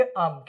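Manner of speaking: "Am" said as one short blended word; contracted AM. Shown as a demonstration. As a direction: run I am together into "Am". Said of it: "को क्या pronounce करेंगे?". ("Am" को एक साथ मिलाकर बोलो)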